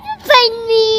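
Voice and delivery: loud, high giggly shout; excited squeal. Real, not acted. Toddler jumping out of hiding, shouting and giggling loud and high. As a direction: burst out with a giddy shout. Child pops out laughing.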